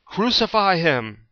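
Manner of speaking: slow, high, loud shout; shouted demand. A narrator's reading. Crowd answers Pilate, slow shouting. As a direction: draw out the cry. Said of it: "And they shouted".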